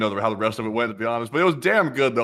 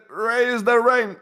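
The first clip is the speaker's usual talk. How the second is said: high, slow mock command; hammed-up leader ordering wells; 11 semitones higher, 3 dB louder, much slower than usual. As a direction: bark it like a pompous leader. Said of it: "We said".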